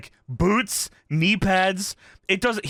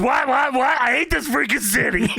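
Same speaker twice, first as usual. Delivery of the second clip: retold outburst; 6 semitones higher than usual. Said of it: "And Kurt goes".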